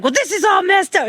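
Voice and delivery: high-pitched mock whine of complaint; retold fit. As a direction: imitate a kid throwing a fit. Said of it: "she threw a whole fucking fit".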